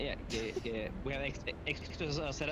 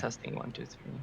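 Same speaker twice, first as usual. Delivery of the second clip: voice changer; 4 dB quieter than usual. Shown as a demonstration. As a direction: voice changer mic test. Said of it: "Does my voice changer work?".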